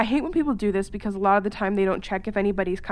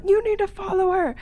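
indignant demand; 10 semitones higher than usual. Retold or imitated. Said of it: "I'm like".

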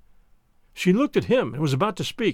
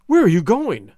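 loud, fearful plea of a question; agonized question; 7 dB louder than usual. Acted. Wife calls after husband heading out, loud and frightened. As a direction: cry out, frightened for him. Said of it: "in an agony of apprehension".

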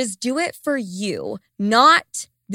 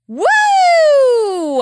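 high, loud, drawn-out woo; heated "woo"; 9 dB louder than usual. Real, not acted. Host venting after reading a listener's letter, heated woo. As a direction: let out a long high whoop to vent, falling at the end. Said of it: "I am heated reading that one".

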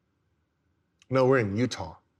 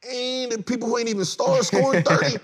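incredulous; 10 semitones higher, 4 dB louder than usual. Retold or imitated. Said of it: "So I'm like".

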